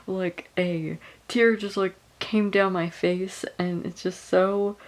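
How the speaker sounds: slow, choked-up with a small laugh; real tears, words coming slowly; tearful. Real, not acted. Reader updating viewers mid-book after a tear fell, tearful. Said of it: "I just started crying".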